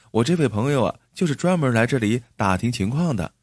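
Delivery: light, friendly explaining with a smile; mildly cheerful persuasion; smiling. Acted. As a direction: coax an angry man pleasantly. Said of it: "赵二柱妻子又笑笑地说".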